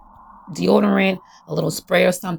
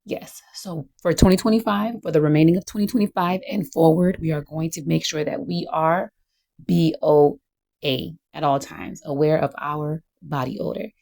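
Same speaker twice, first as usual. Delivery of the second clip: teacher voice. Acted. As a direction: announce it like a teacher to her class. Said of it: "So I'm going to use my teacher voice".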